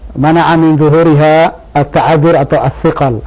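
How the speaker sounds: slow, heavy grammar-terms recital; bury the beginner in technical grammar terms; overcomplicated grammar lecture. Shown as a demonstration. Teacher mocking the hard grammar-first way, slow and laboured. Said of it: "Ada orang yang tersulit".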